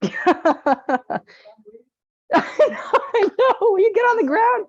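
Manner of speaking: high mock grumble of her dad; grumpy dad voice. Voicing her dad's reply.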